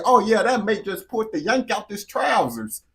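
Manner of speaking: light mock London accent; a hint of a British accent, lightly put on; British accent imitation. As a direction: mimic a Londoner telling it. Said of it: "He say".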